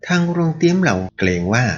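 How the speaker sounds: high, frightened and timid; a scared servant barely daring to answer; trembling voice. A narrator's reading. The inn servant answers the ruffian, frightened and trembling. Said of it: "แว่วเสียงสั่นสะท้านเสียงหนึ่ง".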